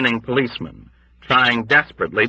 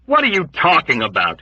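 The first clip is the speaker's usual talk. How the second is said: shouted with dread; 7 semitones higher than usual. Acted. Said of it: "he shouted with dread".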